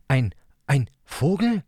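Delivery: hohe, langsame, zögernde Kinderstimme; ängstlicher kleiner Bruder. Acted. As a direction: stockend und verängstigt wie ein kleiner Junge. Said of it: "Leo lugte ängstlich". (ängstliche, hohe Kinderstimme)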